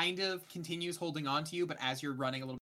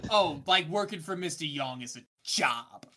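put-on Mister Young voice; 2 semitones higher, 7 dB louder than usual. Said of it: "I do not like the voice".

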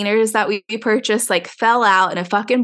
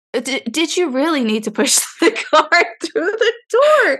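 laughing question; 6 semitones higher than usual. Retold or imitated. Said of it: "And I'm like".

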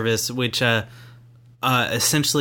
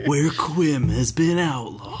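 movie trailer narrator; 3 semitones higher, slower than usual. Shown as a demonstration. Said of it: "a narrator voice".

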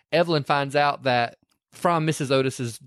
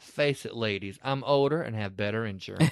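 smug; 5 semitones lower, 6 dB quieter than usual. Retold or imitated. Evelyn smug reply.

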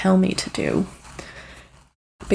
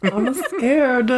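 laughing scared; 5 semitones higher than usual. Acted. Echoing the scaredy-cat bit.

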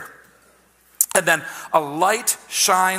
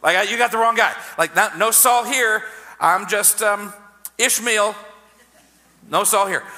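higher-pitched, flustered mock protest; hasty denial; 4 semitones higher than usual. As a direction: play someone insisting they are the wrong guy. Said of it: "my first response is".

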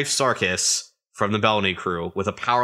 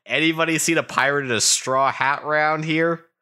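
put-on rough pirate accent, pitched up; a pirate captain strutting into a bar, in a rough accent; Bellamy's accent; 6 semitones higher than usual. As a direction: swagger it like a cocky pirate captain. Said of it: "this is Bellamy's accent".

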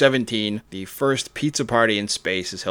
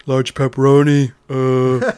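lightly voiced hesitant phone order; pizza customer; 3 semitones higher, 3 dB louder than usual. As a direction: place an order in a lightly put-on voice.

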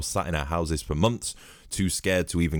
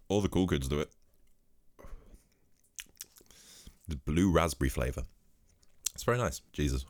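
soft ASMR-style murmur; 5 dB quieter than usual. Real, not acted. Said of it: "Welcome to the A S M R".

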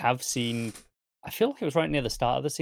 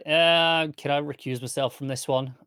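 reluctant plea; 3 semitones higher, 3 dB louder than usual. Retold or imitated. Worf asking Picard to be excused, reluctant. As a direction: stall on a long raised "uh", then ask.

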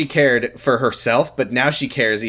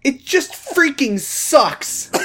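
high, slow tearful whine; mock sobbing; 13 semitones higher, much slower than usual.

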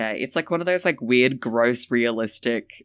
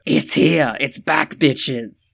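hyped shout; 8 dB louder, much slower than usual. Acted. Hyping segment.

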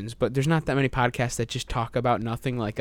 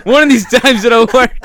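high, loud inventor voice; hopeful mock shout; 8 semitones higher, 11 dB louder than usual. Inventor alone with his boomerang, hopeful shout. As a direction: call it out as the stubborn inventor.

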